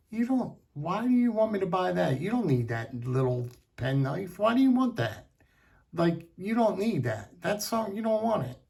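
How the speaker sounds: lightly voiced mom asking why he wants it; mother scolding. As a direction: play the exasperated mother questioning her kid. Mother scolding kid in store.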